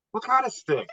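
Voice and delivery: a father baffled by his daughter's sale; disbelieving. Retold or imitated. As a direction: push the pitch up in pure disbelief. Dad questions daughter about stick.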